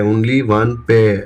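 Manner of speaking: only one pair, repeated very slowly, word by word; slow emphasis. Shown as a demonstration. Teacher repeating the key phrase for students, very slowly. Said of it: "ये line बहुत important है".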